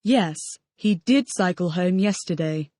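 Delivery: did stressed in "he did cycle". Shown as a demonstration. Student contradicting the teacher, did stressed. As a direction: push the word did to deny it. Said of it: "using an emphatic form in the past".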